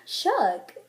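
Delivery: impressed shook after a gasp; gasp, then say it in admiration; gasped amazement. Shown as a demonstration. Reacting to a really cute outfit, amazed. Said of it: "depends on the tone of voice".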